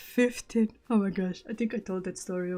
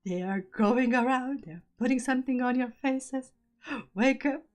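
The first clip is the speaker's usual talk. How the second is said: raised, higher mock yell; half-hearted shouted warning, pitched up; retold scream; 5 semitones higher than usual. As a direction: imitate sounding the alarm without fully screaming. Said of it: "screaming on the top of my lungs".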